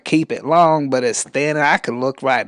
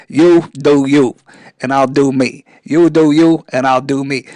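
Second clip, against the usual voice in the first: East Coast accent; 5 dB louder than usual. Shown as a demonstration. Host repeats motto on request, East Coast accent. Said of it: "in that East Coast accent".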